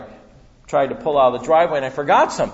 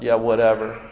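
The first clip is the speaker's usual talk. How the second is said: sarcastic whatever; 4 semitones lower than usual. Retold or imitated. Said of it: "You ever say that to God?".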